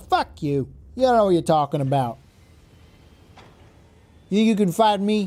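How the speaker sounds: loud, badly put-on Brooklyn accent. Voicing a mech pilot from brooklyn talking back, in a bad brooklyn accent. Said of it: "That's my Brooklyn accent".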